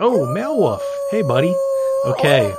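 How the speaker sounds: high, loud call to a pet; talking to a dog. Real, not acted.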